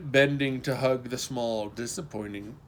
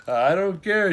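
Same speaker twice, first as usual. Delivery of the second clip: out of breath, gasping the words; panting; 6 semitones higher, 10 dB louder than usual. Acted. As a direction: pant it out, breathless. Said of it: "she panted".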